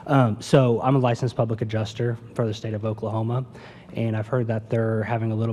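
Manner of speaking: speaking up. Real, not acted. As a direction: project so the room hears. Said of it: "can you hear me better now?".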